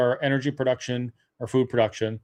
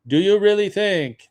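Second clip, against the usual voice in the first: high, loud mock French accent; badly faked French accent, pitched up and emphatic; 7 semitones higher, 5 dB louder than usual. Imitating Jean Chrétien's impassioned speech, bad French accent. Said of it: "that's a bad French accent".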